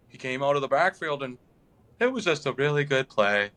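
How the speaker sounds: lightly imitated player, low-pitched; lightly mock a player's low, halting press answer; Jair. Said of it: "That's how he sounded".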